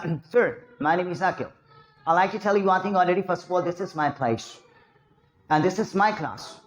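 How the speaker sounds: very slow, word by word; deliberately slow English, each word spaced out. Shown as a demonstration. Teacher shows students slow English speech, very slow. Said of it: "slow बोलो".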